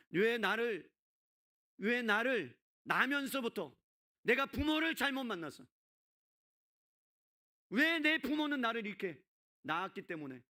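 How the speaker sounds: anguished, high-pitched outcry of blame; resentful lament. Acted. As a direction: protest at your parents, loud and drawn out. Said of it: "원망하지 않았겠어요?".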